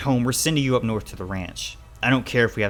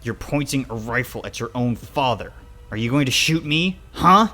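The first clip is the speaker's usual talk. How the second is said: building louder and higher to a goading huh; angry challenge; 4 semitones higher, 8 dB louder than usual. Acted. Father daring child with rifle, angry. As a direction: challenge them, rising to a shout.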